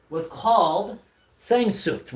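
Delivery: The album name said slowly as ZAYN-zookt, drawn out, German-style; unsure German word. Real, not acted. Streamer unsure how to say the album name, careful slow German try. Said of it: "Am I saying that right?".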